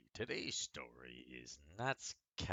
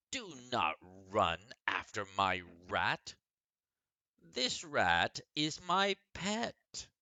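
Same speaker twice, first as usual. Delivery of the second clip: put-on high, louder, slow pleading girl voice; upset girl; 5 semitones higher, 7 dB louder, slower than usual. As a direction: plead for her pet in a little girl's voice. Meg protects her pet rat.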